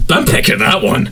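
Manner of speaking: eager pick. Retold or imitated. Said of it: "And I'm like".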